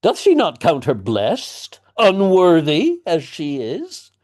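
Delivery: father berating his daughter, coarse and loud; peasanty tirade. Acted. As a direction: rage like a common tradesman. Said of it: "he sounds more and more peasanty".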